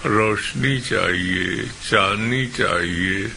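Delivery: slow, restrained plea in verse; lightly imploring, drawn-out recitation; understated pleading. Acted. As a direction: plead gently within a poetry recital. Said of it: "गिड़गिड़ाता रहा".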